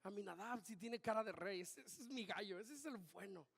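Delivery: a hint of a doting dad bragging; proud father. Father bragging to the prophet about his eldest, lightly voiced and soft. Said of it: "Su papá decía".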